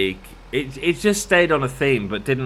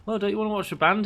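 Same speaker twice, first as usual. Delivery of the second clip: mock nagging; 10 semitones higher, faster than usual. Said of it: "people are like".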